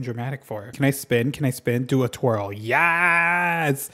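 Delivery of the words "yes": high, drawn-out squeal breaking into laughter; delighted, stretched-out whoop; gleeful cheer. Real, not acted. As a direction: cheer it long and loud, up high. Cheering own twirl in game.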